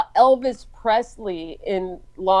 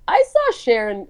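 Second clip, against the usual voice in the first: inaccurate mom impression; 4 dB louder than usual. Daughter retelling mom's celebrity story, inaccurate squeaky impression. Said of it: "she doesn't say it like that".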